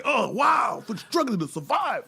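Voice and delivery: fake-caring news voice; mock news sympathy. Mocking the media sympathy for white looters. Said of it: "and it's like".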